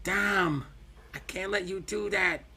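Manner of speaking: high-pitched wrestler impression; put-on high, earnest voice; Rey Mysterio. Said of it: "a spot on fucking Rey Mysterio".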